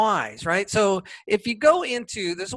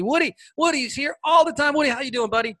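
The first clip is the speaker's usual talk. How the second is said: dog-talk voice; 8 semitones higher, faster than usual. Real, not acted. Host talks to his dog.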